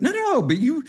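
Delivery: insistent classmates. Retold or imitated. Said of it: "They're like".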